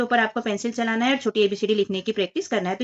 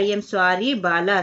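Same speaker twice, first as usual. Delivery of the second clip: slow model phrase; 4 semitones lower, much slower than usual. Shown as a demonstration. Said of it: "तो ये बोल रहा है".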